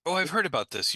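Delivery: ordinary delivery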